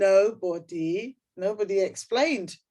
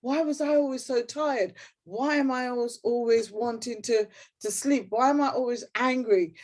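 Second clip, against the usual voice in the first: reading aloud; 4 semitones higher than usual. Shown as a demonstration. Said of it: "And I wrote".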